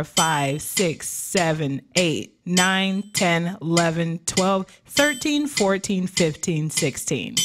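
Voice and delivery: measured counting on a steady beat; exercise count-in. Shown as a demonstration. Coach leading students through a breathing drill, rhythmic counting. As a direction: count them through it, one number per beat.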